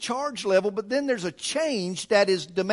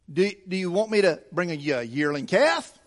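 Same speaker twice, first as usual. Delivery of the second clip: mildly sarcastic offer, quick start; a touch of teenage mock helpfulness; 3 semitones lower than usual. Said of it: "almost in a sarcastic tone".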